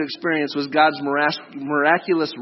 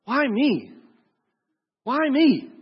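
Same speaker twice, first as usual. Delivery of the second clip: whiny Moses; 7 semitones higher, slower than usual. Acted. Moses objects to God.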